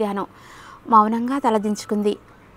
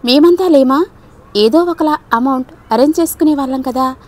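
protesting; 4 semitones higher, 4 dB louder than usual. Acted. Friend protests eagerly.

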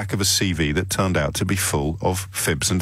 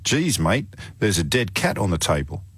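light mock Australian campaigner's voice; Australian accent. Radio host quotes his Australian friend's dead cat line, lightly put-on Australian accent. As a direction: quote the Australian mate with a hint of twang. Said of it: "I will do an Australian accent".

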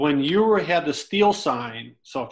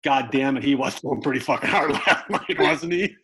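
laughing through quote. Retold or imitated. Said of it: "he turns to me and he goes".

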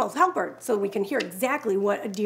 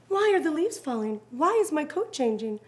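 curious fawn; 2 semitones higher than usual. Acted. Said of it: "asked the fawn".

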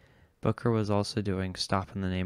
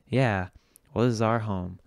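louder, rallying the crowd on this; rousing speech; 5 dB louder than usual. Acted. Emcee rallying the club crowd, raised voice. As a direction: call out to the whole room.

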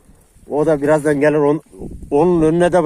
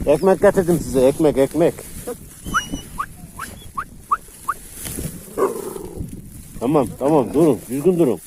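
soothing the dogs; 3 dB quieter than usual. Real, not acted. Vlogger calming hungry dogs while handing out bread, soft and soothing.

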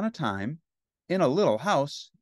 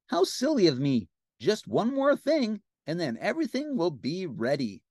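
high cartoon helper, leaping pitch; Ernie; 5 semitones higher than usual. Ernie promises one last thing, high cartoon voice. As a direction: reassure him, stretching the promise out. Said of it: "Ernie said".

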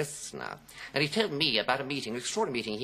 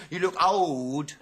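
slow, loud, drawn-out verdict; blunt child; 4 semitones higher, 5 dB louder, slower than usual. Retold or imitated. Little boy to an adult, tactlessly blunt. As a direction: state it baldly, stretching the words. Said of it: "say things totally directly without diplomacy".

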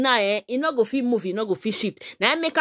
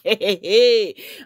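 short laugh; 2 semitones lower than usual. Real, not acted. Laughs at the woman's story.

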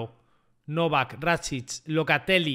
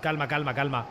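mock soothing; 6 semitones lower, 5 dB quieter than usual. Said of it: "estáis gritando mucho, calma".

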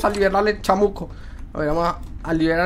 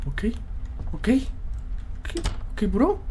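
whispered; 3 semitones higher, 9 dB quieter than usual. Real, not acted. Hushed after the scare.

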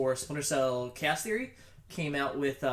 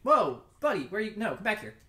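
mock startled enemy; 6 semitones higher than usual. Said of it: "I just blind fired one of those guys, like".

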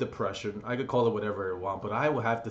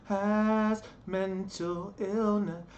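dramatic intro voice; 10 semitones higher, much slower than usual. Acted. Dramatic opening line of vlog.

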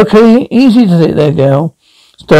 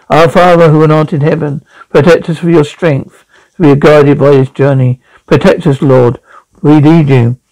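prayer. Acted. Prays during the crash.

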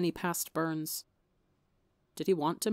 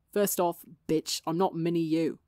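arguing. Acted. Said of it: "Tommy argued".

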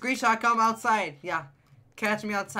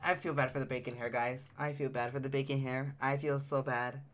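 sorry pity; 5 semitones lower, 6 dB quieter than usual. Real, not acted. Pities the game character.

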